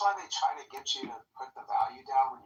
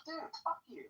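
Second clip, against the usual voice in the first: pleading, rising to a long drawn-out high "Come on, dude"; mock outrage that stretches the last words out; exasperated; 9 semitones higher, 15 dB louder, slower than usual. Retold argument over price.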